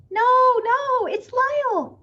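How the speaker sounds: high, loud insistent call; insistent reassurance to the crowd. A narrator's reading. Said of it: "called Missus Prim".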